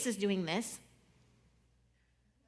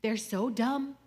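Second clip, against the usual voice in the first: raised, indignant mock complaint to friends; exasperated venting; 4 semitones higher, 5 dB louder than usual. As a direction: act out griping to a friend, loud and worked up. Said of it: "go to our friends and be like".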